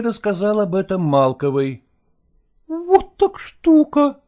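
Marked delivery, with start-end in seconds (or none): 2.3-4.2 high, slow, breathless woman's voice; a hushed, startled actress; whispered actress. A narrator's reading. Actress Malkova to Lagorsky in the wings, hushed and dismayed. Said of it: "прошептала она".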